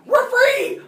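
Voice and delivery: high, loud cry of release; freed hatred. Acted. Hatred bursting out of a punched kid, high triumphant shout. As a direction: burst out like hatred let loose. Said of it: "all the hatred was like".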